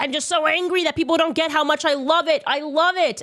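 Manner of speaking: high mock earnest voice; mocking Charlie. Mocking Charlie claiming he loved Israel, high mock voice. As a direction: parody him gushing about his love. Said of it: "He's like".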